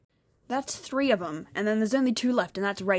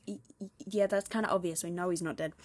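softer, sinking stammered agreement; retold unimpressed reply; 5 dB quieter than usual. Speaker answers mum's obvious remark, retold unimpressed reply. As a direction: trail down as if it is obvious. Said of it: "And I was like".

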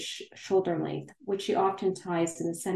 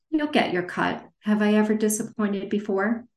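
put-on American accent; 3 semitones higher, 3 dB louder than usual. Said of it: "switching to an American accent".

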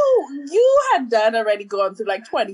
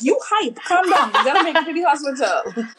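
higher, laughing as she urges herself; laughing self-talk; 4 semitones higher than usual. Retold or imitated. Mother rushing to the hospital telling herself calm down, laughing. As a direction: tell yourself to calm down, laughing.

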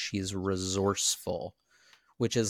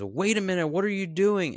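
confused Jack; 10 semitones higher, 5 dB louder than usual. Retold or imitated. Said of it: "comes to during and says".

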